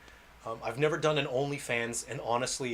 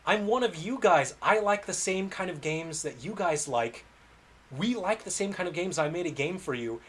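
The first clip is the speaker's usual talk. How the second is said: pleading complaint; 5 semitones higher than usual. Retold or imitated. Developer pleading with gamers, higher and insistent. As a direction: beg the gamers to see you're one of them.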